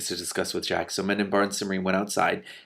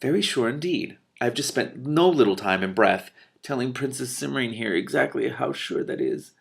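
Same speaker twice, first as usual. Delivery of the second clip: lofty, self-important magician voice; pompous magician; 4 semitones higher than usual. Acted. Telemaine insisting to Mendenbar, lofty and pompous. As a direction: lecture them from on high.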